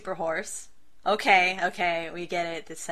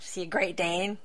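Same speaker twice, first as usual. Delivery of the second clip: soft whispered question; whispered aside; 2 semitones lower, 4 dB quieter than usual. Real, not acted. Still confessing her dog-riding wish, whispered. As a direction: keep it hushed and conspiratorial.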